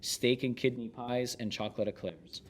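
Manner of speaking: steady, measured book narration; narrating from the page; memoir read aloud. Acted. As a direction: read the chef's memoir to listeners.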